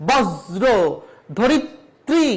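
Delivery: বজ্র and ধরিত্রী said with doubled জ and ত; doubled consonant examples. Shown as a demonstration. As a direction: model words with doubled consonant. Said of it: "দুইবার উচ্চারিত হয়েছে". (দ্বিত্ব উচ্চারণের উদাহরণ)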